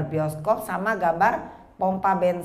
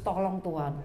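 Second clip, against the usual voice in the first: softer, halting mock prayer; confused prayer; 6 dB quieter than usual. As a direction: pray as if your mind went blank. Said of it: "mau ngomong apa lagi bingung".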